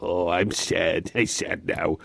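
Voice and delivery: low, slow pretend sulk; deflated comic pout; mock sadness. Cute act turns to pretend sulk.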